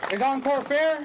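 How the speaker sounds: loud chant call; rally speech. Real, not acted. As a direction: call out to the crowd.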